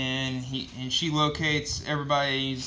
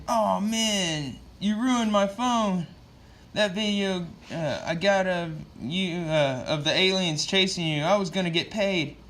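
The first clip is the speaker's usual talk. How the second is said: hammed-up upset bystander, voice pitched up; mock freakout; 5 semitones higher than usual. Bystander to Green Arrow over his ruined phone, mock freakout. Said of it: "starts freaking out on Green Arrow".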